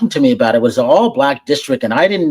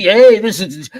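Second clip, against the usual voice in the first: peppy radio jock hype; hyper DJ voice; 4 semitones higher, 3 dB louder, slower than usual. Shown as a demonstration. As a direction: punch it like a morning DJ. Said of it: "you have that type of hyper voice".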